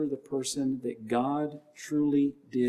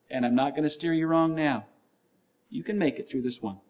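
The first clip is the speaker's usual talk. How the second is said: a hint of a firm coach's encouragement; lightly voiced coaching God; spiritual workout partner; 3 semitones higher than usual. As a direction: reassure like a spotter who believes in you. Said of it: "the spiritual workout partner telling you".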